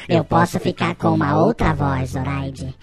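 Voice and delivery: deep, slow, spooky effect voice; eerie warning in a deep effect voice. Acted. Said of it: "Eu emulei bem?".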